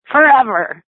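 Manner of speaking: high, loud tearful wail; crying out. Retold or imitated. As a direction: wail the word like a child in tears. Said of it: "she cries again".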